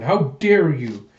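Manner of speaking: slow, drawn-out indignation; outraged. Acted. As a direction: demand it slowly, in outrage. Den attacks the projection, outraged.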